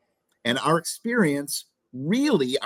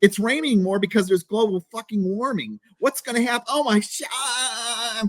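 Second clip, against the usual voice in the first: mock whining rant; 5 semitones higher than usual. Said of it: "They go".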